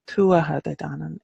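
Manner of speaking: tuatha de danann with the first syllable of tuatha stressed; Irish pronunciation. Shown as a demonstration. Teacher giving her own pronunciation of the name. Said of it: "is how I would pronounce".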